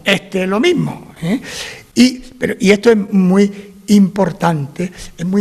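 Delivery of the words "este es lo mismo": Este with the s breathed as an h, a bit slow; s aspirada andaluza; Andalusian aspirated s. Shown as a demonstration. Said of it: "que decimos".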